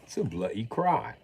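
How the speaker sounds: hammed British complaint with swooping tune; put-on British grumble; mock-British accent.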